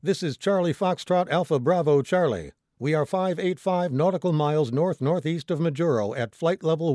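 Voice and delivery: urgent mayday radio call, loud opening; distress call. Acted. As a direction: call it out firmly over a radio.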